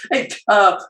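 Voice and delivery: hammed-up imitation of dad greeting customers; dad greeting Samoan customers, loud and high; dad's broken Samoan. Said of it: "It's like".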